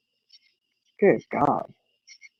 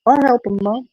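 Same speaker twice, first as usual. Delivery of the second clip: put-on little girl offering help; 6 semitones higher than usual. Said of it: "she was there ready to help".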